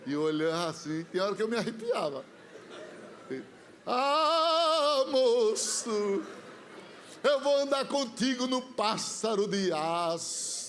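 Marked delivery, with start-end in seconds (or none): 3.9-10.6 half-sung, slow mystical prophecy; prophetic wail. Retold or imitated. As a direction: intone like a prophet in trance. (profeta cantando a profecia)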